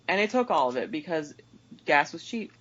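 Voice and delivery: ordinary talk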